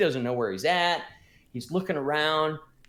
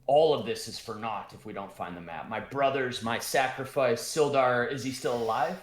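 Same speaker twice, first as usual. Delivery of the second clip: dwarf Gundren; 5 semitones lower than usual. Acted. DM voices worried dwarf.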